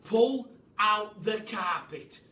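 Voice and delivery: loud, slow barked order; commanding shout. Acted. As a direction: order the carpet out. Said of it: "shouted Mugglewump".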